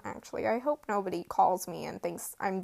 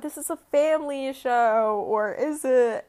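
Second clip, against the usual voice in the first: imitating Harry; 3 semitones higher, 4 dB louder than usual. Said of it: "video of Harry saying".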